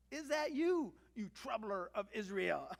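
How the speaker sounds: hammed-up challenge to a troublemaker; accusing. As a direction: relish the accusing question. Repeats Ahab's challenge with relish.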